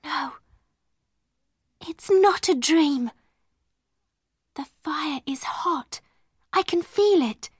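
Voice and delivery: high, marvelling voice; breathless wonder. A narrator's reading. Sara discovering the fire and table are real, amazed. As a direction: swell from hushed disbelief to excitement.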